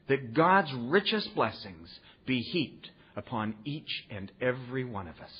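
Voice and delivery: slow, measured and heartfelt; solemn blessing. Retold or imitated. Older member closing his talk with a wish, solemn.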